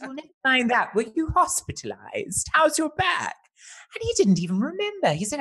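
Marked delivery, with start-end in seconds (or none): 0.0-3.4 concerned. Retold or imitated. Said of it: "And I said".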